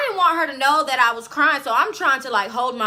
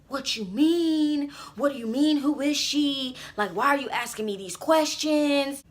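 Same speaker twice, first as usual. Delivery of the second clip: imitated boyfriend; 3 semitones higher, 4 dB quieter than usual. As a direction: lightly mimic him playing dumb. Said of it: "And he was like".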